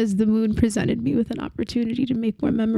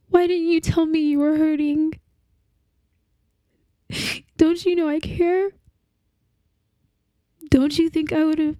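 higher, strained, pleading questions; anguished pleading; 5 semitones higher than usual. Acted. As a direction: beg for an answer that won't come. Grieving partner confronts the dead.

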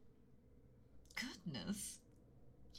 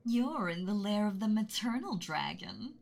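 "maternal dragon" bright, louder and rising; sweet reveal; 3 semitones higher, 6 dB louder than usual. Acted. Dragon revealing her true kind nature, brightly. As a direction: drop the act and beam at him. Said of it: "forgive my tone of voice earlier".

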